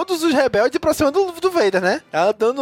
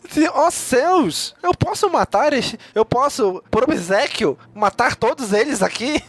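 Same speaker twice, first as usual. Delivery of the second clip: prissy droid voice, slow on "oh céus"; lightly voiced fussy robot butler; Triple Zero impression; slower than usual. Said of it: "É mais ou menos isso, né, que ele fala".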